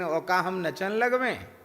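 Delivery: gently drawled Bundeli village speech; Bundeli lilt. Retold or imitated. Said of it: "ऐसे बोला उसने लहजे में".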